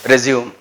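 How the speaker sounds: resume as a verb, ri-ZYOOM; verb pronunciation. Shown as a demonstration. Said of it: "It is verb".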